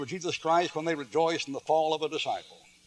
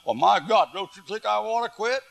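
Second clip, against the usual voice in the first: higher-pitched mock crying plea; retold tearful protest; 6 semitones higher than usual. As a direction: imitate a man protesting through tears, pitch climbing. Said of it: "began to cry".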